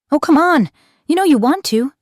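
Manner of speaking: high, loud, light-hearted coaxing; mischievous, singsongy high-pitched egging on; playful teasing. Acted. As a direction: tease them with a hint of mischief. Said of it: "she teased, her voice light and playful".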